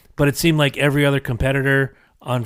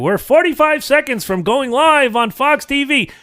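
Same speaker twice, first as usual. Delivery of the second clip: arena announcer; 12 semitones higher, 4 dB louder than usual. Retold or imitated. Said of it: "they're like".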